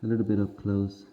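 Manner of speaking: muffled, breathy voice behind a respirator; breathing through mask. Real, not acted. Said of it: "excuse my breathing".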